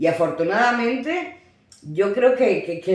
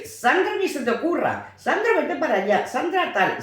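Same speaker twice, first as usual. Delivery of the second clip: put-on higher, urgent calls of the child's name; calling out a warning; 5 semitones higher than usual. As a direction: warn the little girl from a distance, calling. Mother calling to her daughter. (madre que llama a su hija para advertirle, llamada alta y urgente)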